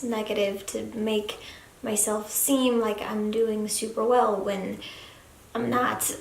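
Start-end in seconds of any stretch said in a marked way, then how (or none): 5.5-6.2 voice cracking. Real, not acted. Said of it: "Oh, my voice cracked".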